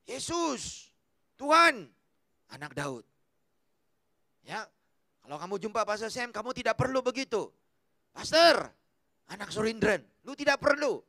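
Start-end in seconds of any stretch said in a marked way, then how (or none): 0.1-3.1 calling out to Jesus, loud on Tuhan; a pleading cry for help; mild retold outcry. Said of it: "langsung dia menjerit". 8.1-11.0 overdone, showy address to the pastor; teasing, loud on Pastor; mock flattery. Mocking an overdone title.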